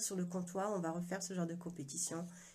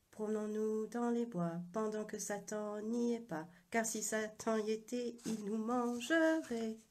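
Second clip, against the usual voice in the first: put-on little girl's voice; 3 semitones higher than usual. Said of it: "Une voix de petite fille".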